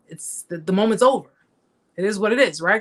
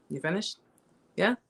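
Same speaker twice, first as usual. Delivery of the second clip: calm, unbothered father. Retold or imitated. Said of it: "My dad doesn't argue".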